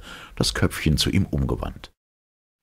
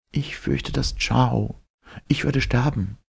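put-on fearful young woman; 10 semitones higher than usual. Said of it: "und flüsterte".

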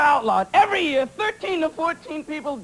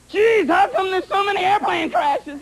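whiny mock complaint; 4 semitones higher than usual. Comic crowd griping about crashes, shouted mock complaint. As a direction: bellow it like a baffled passenger. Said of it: "everyone's going".

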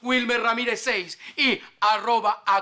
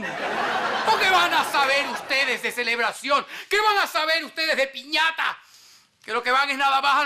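theatrical outrage, higher on the repeat; indignant scolding; 5 semitones higher than usual. Acted. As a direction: scold them, climbing on the second question. Scolds the others as ignorant. (regaño indignado y teatral)

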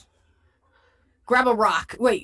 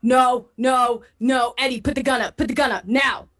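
firm, raised-voice order; insist, as if stopping a friend from shooting; urgent command; 2 semitones higher than usual. Acted. Acted warning to armed companion.

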